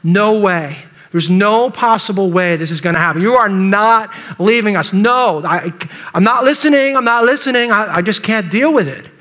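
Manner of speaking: mildly insistent refusal to accept it; imitating someone in stubborn denial; acted denial. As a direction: refuse to hear it, lightly acted. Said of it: "The denial".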